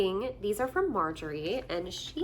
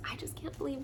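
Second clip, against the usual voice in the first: touched whisper; 5 semitones higher, 8 dB quieter, much faster than usual. Real, not acted. Moved by people's kindness.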